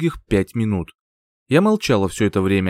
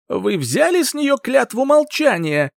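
roaring tyrant king; 13 semitones higher than usual. Acted. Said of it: "Король взревел".

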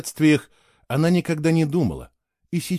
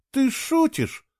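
much higher shocked cry; higher stunned gasp of a question; shocked exclamation; 13 semitones higher, slower than usual. A narrator's reading. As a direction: she can't believe what she hears. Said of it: "потрясённо воскликнула Кейла".

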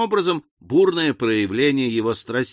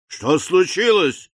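slow, raised-pitch roar of the host; 5 semitones higher, 3 dB louder, slower than usual. A narrator's reading. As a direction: bellow it out slowly as master of the house. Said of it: "заревел хозяин дома". (протяжный рёв хозяина)

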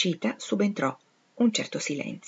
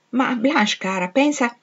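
higher, louder motherly protest; anxious, raised appeal to reconsider; pleading mother; 6 semitones higher, 5 dB louder, slower than usual. A narrator's reading. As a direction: plead with a headstrong daughter. Mother pleading with headstrong daughter.

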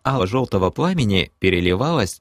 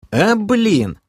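grumble; 13 semitones higher, 4 dB louder than usual. Acted. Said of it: "буркнул я под общий смех".

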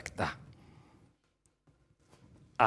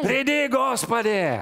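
pleading cry; 12 semitones higher, 8 dB louder, slower than usual. Acted. Believers at the door pleading.

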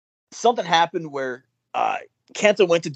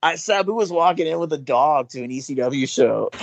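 ordinary delivery

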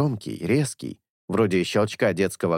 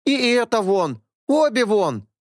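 резко и громко, властно; рявкнуть на обеих; громкий приказ; 12 semitones higher, 4 dB louder than usual. A narrator's reading. Вышибала выгоняет обеих женщин. (вышибала выгоняет женщин, громко)

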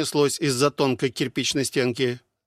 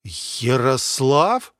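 plain reading voice

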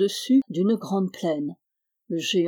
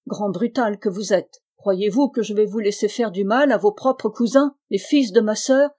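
higher and louder, menacing; mother threatens her giant son, menacing; threatening warning; 3 semitones higher, 5 dB louder than usual. Acted. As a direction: scold him with a stick raised. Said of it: "avec des yeux menaçants".

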